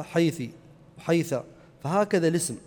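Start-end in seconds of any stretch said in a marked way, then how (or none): 0.0-0.5 حيثي said as haythi, ending in -i; final -i vowel. Shown as a demonstration. Teacher showing other tribes' form, final -i. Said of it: "وبعض القبائل العرب تنطقها حيثي". 1.0-1.4 وحيثة said as wa-haytha, ending in -a; final -a vowel. Shown as a demonstration. Teacher adding a third tribal form, final -a. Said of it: "وبعض القبائل العرب تنطقها".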